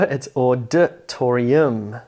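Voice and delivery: auditorium slowly, syllable by syllable, leaning on TOR; stress on third syllable. Shown as a demonstration. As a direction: spell out the rhythm of auditorium with TOR biggest. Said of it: "See the emphasis on the third syllable".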